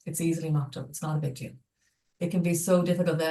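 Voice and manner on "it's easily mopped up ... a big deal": gentle, understated reassurance; mildly soothing, as if forgiving a small accident; warm, accepting. Acted. Speaker models what a child rarely hears after spilling milk, warm and accepting. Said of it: "that sort of warm, accepting response".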